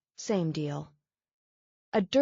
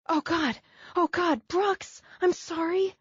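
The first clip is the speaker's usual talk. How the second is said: high, frantic cries of alarm; panicked apology; 11 semitones higher than usual. Acted. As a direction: blurt it out in a panic, voice shooting up. She hurt him by reflex.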